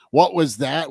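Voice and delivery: ordinary talk, nothing marked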